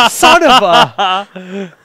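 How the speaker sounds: laughing mid-curse. Real, not acted. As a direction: caught out, cracking up. Caught eating, laughing.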